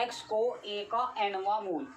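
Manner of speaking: "X को ए का एनवा मूल" said slowly, word by word, for note-taking; slow dictation. Shown as a demonstration. Teacher dictating the definition to students, slow and word by word. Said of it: "क्या लिखा बच्चों?".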